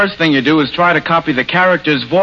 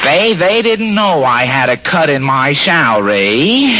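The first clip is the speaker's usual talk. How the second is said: Fred Allen; 3 semitones lower than usual. Retold or imitated. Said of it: "put a little more feeling into his voice".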